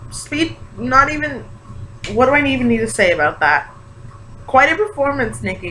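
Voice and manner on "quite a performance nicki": high, pointed stress on Quite; sarcastic. Real, not acted. Vlogger mocking Nicki's show, stressing "Quite" high and arch. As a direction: lean hard on "Quite" with a raised eyebrow.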